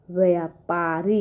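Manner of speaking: व्यापारी read slowly with a final rise; teacher modelling how to read व्यापारी; slow model reading. Shown as a demonstration. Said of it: "इस तरह से हम इसको पढ़ेंगे".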